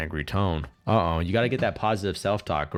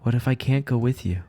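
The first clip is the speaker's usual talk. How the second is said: Kurisu; 4 semitones higher than usual. Acted. Voices Kurisu in the game.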